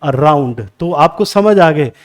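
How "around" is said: slow "around" as a-ROUND; second-syllable stress. Shown as a demonstration. Teacher lists prepositions, "around" stressed on its second syllable. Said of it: "आपका stress use होगा second syllable पे".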